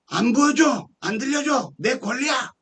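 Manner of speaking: imitated high-pitched defiance; retold quarrel, refusing point by point; stubborn refusal. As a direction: act out an obstinate opponent.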